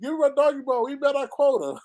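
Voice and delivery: a hint of an eager dog demanding its reward; talking dog. Vlogger playing the drug dogs wanting their bone, lightly voiced. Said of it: "The dog be lined up".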